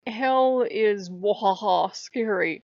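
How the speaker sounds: slow hammed-up spooky tone; slow, hammed-up spooky delivery; spooky mock voice. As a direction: drag it out like a campy ghost story. Mock spooky voicing of scary.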